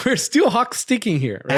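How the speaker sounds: laughing through the words; amused laugh mid-sentence. Real, not acted. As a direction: chuckle while saying it. Laughs while speaking.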